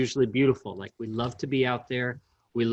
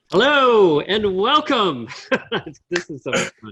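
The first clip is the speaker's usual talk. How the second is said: very loud, very high, cheesy game show announcer voice; 8 semitones higher, 9 dB louder than usual. Opening the show, the host greets the audience in a cheesy game show announcer voice. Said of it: "I love being like the cheesy game show announcer".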